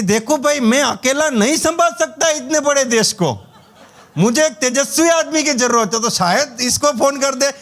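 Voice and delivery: ऊँची, धीमी, हँसी भरी मज़ाकिया नेता वाली आवाज़; बड़े नेता की तरह गंभीरता का दिखावा, हँसते हुए; नरेंद्र मोदी की नकल. Retold or imitated. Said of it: "Narendra Modi जी शायद इसको दो बजे फोन करेंगे". (भतीजे का मज़ाक उड़ाते हुए, मोदी जी की हल्की मज़ाकिया नकल)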